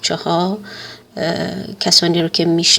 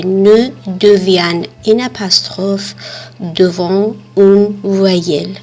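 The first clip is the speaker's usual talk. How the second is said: slow model sentence; much slower than usual. Shown as a demonstration. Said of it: "در این قسمت نوشته شده".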